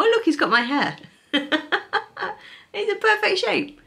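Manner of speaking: very high squeaky coo; overwhelmed by cuteness. Real, not acted. Gushing over crochet toy.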